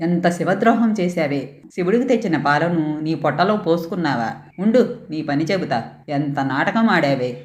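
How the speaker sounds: mild fury, mostly understated; a father threatening his daughter; raging father. Acted. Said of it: "ఆక్రోశంతో". (ఆక్రోశంతో తండ్రి బెదిరిస్తూ)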